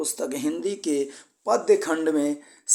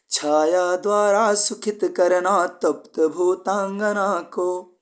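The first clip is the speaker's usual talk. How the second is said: poem recitation; 2 semitones higher, slower than usual. Shown as a demonstration. Teacher recites the Pavan Dutika stanza to the class, slow and lilting. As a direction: chant the stanza slowly, lifting each line.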